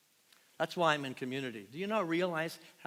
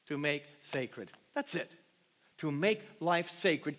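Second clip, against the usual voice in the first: tender, slow. Acted. Pastor explaining sacrifice to the congregation, tender and slow. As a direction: lay the words down gently.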